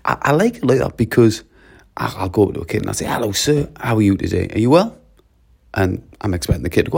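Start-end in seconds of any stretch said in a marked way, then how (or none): 3.0-5.0 courteous hello lifting on the final question; polite greeting. Acted. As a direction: greet a pupil with marked courtesy. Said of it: "listening for tone of voice".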